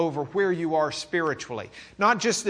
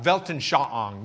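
Texan German accent; 4 semitones lower, slower than usual. Shown as a demonstration. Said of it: "so that's my German accent".

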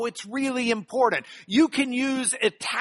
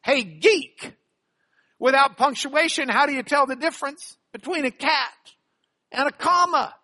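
cartoon riddle voice; 5 semitones higher, 3 dB louder than usual. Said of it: "our first Greek geek cartoon".

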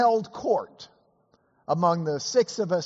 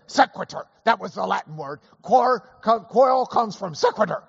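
louder, higher retold interjection; eager correction; 4 semitones higher, 5 dB louder than usual. Scalia jumping in to correct the Latin, loud and eager. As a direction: jump in and correct him.

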